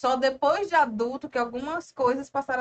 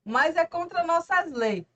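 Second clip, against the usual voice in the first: Rony solene; 6 semitones higher, slower than usual. Retold or imitated. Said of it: "o Rony diz logo".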